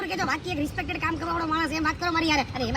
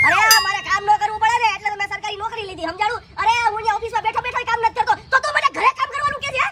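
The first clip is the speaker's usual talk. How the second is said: arrogant scoff; 3 semitones higher, 3 dB louder than usual. Acted. Arrogant officer refuses work.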